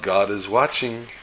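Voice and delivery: slow, solemn voice from the dark; mysterious calling voice. Acted. Unseen voice warns a burglar, slow and solemn. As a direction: call it out slowly like an unseen warning. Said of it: "he hears the voice call out".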